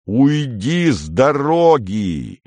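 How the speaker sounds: yell, finally breaking; snapping shout. A narrator's reading. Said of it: "заорал Андрей, срываясь". (сорвавшись, криком)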